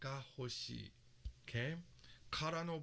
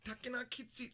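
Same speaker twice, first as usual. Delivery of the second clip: put-on cute girl; 8 semitones higher than usual. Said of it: "you're like".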